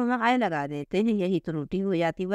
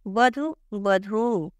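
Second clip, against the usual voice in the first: slow model word; much slower than usual. Shown as a demonstration. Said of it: "teacher demonstrates spelling".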